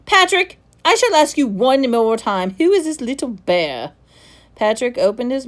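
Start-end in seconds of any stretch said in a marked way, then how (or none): 0.0-3.9 stern warning. Acted. Headmaster final warning.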